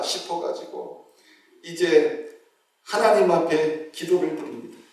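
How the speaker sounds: usual speaking voice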